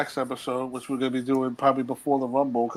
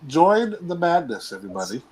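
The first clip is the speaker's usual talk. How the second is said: catchphrase sign-off. Real, not acted. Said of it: "catchphrase for New York Wrestling Media".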